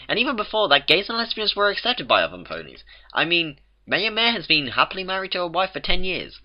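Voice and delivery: lightly voiced Twilight pleading reason. A narrator's reading.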